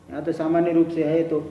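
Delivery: normal talking voice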